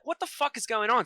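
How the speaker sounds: mock bewildered reaction; retold bewilderment. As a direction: act out total confusion, lightly. Retells confusion after being yanked out.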